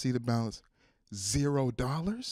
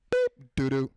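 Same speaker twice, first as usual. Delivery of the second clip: card machine beep; 4 dB louder than usual. Retold or imitated. Card machine telling on a shopper, beeped refusal. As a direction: imitate a card reader declining. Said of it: "the machine makes that noise".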